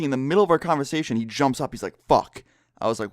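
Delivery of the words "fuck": sharp, louder curse of sudden realization. Retold or imitated. Friend remembers his keys, a sudden loud curse. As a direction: blurt it out as the penny drops.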